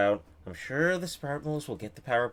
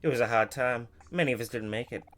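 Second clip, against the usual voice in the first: put-on southern accent. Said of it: "very southern".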